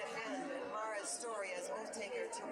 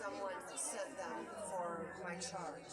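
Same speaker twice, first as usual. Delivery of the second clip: held-back grief; 3 semitones lower, slower than usual. Acted. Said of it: "fighting against succumbing to his feelings".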